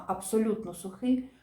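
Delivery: "абсолютно" given the weight in "абсолютно сухий"; stress on first word. Shown as a demonstration. Teacher explaining separate spelling, emphasis on "абсолютно". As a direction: make "абсолютно" stand out before "сухий". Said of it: "наголос логічний падає на перше слово".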